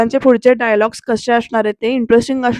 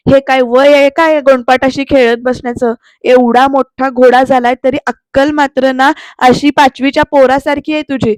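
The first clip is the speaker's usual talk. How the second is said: louder, scornful telling-off; scornful scolding; 5 dB louder than usual. Retold or imitated. Aarti scolding Pruthvi for playing like a boy, loud and scornful. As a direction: shame him like a child. Aarti mocks his childishness.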